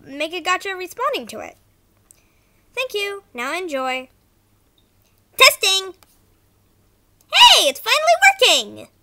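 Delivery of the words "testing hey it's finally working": loud, high excited cartoon voice; character voice. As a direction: shout it out bright and high. Character voice starts with excited shout.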